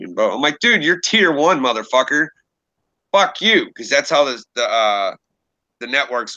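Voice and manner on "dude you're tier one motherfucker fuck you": retold angry retort. Retelling argument with rival narrator.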